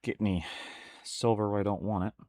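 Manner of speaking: 屏住呼吸说话; 憋着气轻声说; holding breath. Real, not acted. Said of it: "holding my breath a little bit".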